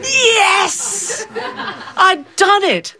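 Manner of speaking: triumph. Retold or imitated. Triumphant child.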